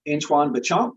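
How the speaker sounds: tentative French accent on the name. Shown as a demonstration. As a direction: attempt Antoine Béchamp in a French accent. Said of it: "saying that name, um, in that accent".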